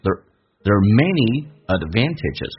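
slow phrase with "there are" slurred into "ther"; weakened "there are". Shown as a demonstration. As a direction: glide lightly over "there are". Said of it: "红色字体用降调读".

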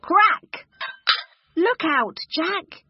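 high, loud cry of alarm; alarmed warning. Acted. Warning Jack as something cracks, alarmed and high. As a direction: call out a sudden urgent warning.

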